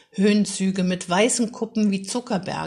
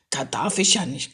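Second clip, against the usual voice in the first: lower, grumbling retort; a boy growling back at his father, lower; sulky growl; 5 semitones lower than usual. Acted. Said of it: "knurrte Maximilian".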